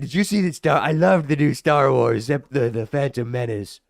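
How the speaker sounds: lightly voiced mock Asian accent, chatty; a hint of a bad Asian accent, casual; asking about Star Wars in a mild bad Asian accent. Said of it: "it's like a bad Asian accent".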